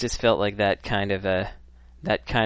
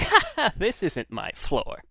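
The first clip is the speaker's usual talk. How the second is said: sheepish elevator rider; 11 semitones higher than usual. Retold or imitated. Clueless rider to fellow passengers on the wrong floor, sheepish. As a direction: put on an awkward high chuckle, then slow down.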